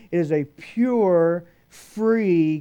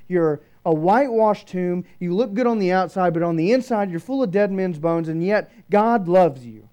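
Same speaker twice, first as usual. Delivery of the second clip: raised, emphatic preacher's rebuke; confronting accusation; 4 semitones higher, 4 dB louder than usual. Acted. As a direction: pile up the charges against a hypocrite, voice lifted. Acts out Jesus confronting the Pharisee Nicodemus.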